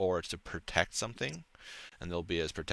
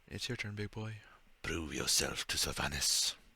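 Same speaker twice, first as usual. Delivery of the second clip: menacing, threatening tone. Telling a player it is their turn to prove themselves: menacing. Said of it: "Why'd you say it so menacingly?".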